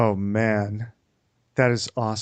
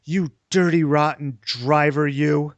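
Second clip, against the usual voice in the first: louder, drawn-out mock scolding; imitated road rage, slow and emphatic; mock angry driver; 3 semitones higher, 4 dB louder, slower than usual. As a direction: scold another driver with hammed-up indignation. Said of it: "pointing her finger angrily at the car while saying".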